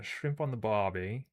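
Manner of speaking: trying out an Australian accent; rough Australian test phrase; Aussie accent. Shown as a demonstration. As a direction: have a tentative go at Aussie. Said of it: "how do we do Aussie".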